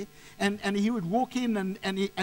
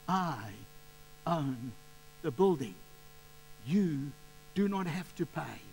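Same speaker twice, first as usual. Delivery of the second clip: deliberate, quietly emphatic imitation of the owner; firm reassurance; 2 semitones lower, 4 dB quieter than usual. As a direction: spell it out patiently, piece by piece. Owner firmly reassures the tenant.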